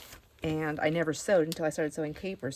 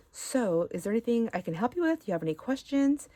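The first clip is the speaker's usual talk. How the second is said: lightly voiced, higher waitress offering help; a brisk, higher customer-service lilt; friendly waitress; 5 semitones higher than usual. Waitress greets diners at Frank's Diner, friendly. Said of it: "so happy and friendly there too".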